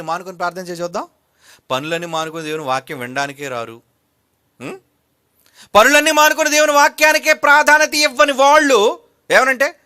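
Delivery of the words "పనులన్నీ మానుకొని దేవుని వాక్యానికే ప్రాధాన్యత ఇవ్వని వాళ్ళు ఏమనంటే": high, loud, ringing rebuke; forceful preaching. Real, not acted. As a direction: declaim it hard at the congregation.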